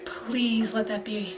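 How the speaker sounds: breathless hushed begging, near silent; whispered pleading. Real, not acted. Viewer begging the show for a scene, in a hushed whisper. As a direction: plead under the breath, please after please.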